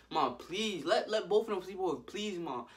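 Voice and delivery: lightly acted wheedling; mild pleading. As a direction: plead with mom like a kid. Acts out begging his mom.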